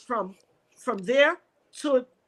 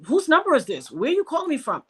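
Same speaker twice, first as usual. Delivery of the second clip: annoyed sister; 4 semitones higher, 3 dB louder than usual. Retold or imitated. Acting out annoyed sister on phone.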